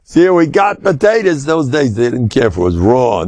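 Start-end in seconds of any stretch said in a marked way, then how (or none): 0.0-1.4 slow high cheer; excited high retold cheer; excited boys. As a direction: cheer like boys who found food. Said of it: "all the guys grabbed the potatoes".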